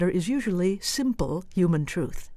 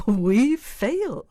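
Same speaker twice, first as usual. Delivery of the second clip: brazen daredevil; 5 semitones higher than usual. Shown as a demonstration. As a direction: fling it out with bravado. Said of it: "she's the brazen daredevil".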